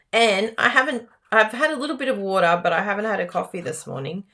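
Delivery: ordinary delivery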